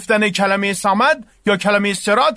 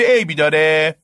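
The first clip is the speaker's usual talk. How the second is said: defiant shout; 4 semitones lower than usual. Acted. Babak defends whistling in prayer.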